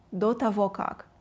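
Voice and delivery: quick, joined-up model phrase. Shown as a demonstration. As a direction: link the words without pauses. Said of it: "try to say it faster".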